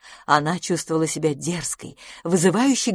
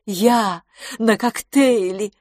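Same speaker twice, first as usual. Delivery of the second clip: slow, louder, dreamy disbelief; blissful wonder; 5 semitones higher, 5 dB louder, much slower than usual. A narrator's reading. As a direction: marvel at herself, slowly. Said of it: "блаженно вздохнула". (медленно, блаженно, с восторгом)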